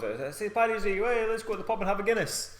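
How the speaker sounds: high-pitched eager reveller; rally your mates for the pub, hammed-up; mock excitement. Acts out keen Paddy's Day reveller.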